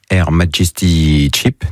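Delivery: slow English with a French accent; English words in a real French accent. Real, not acted. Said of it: "Désolé pour mon accent".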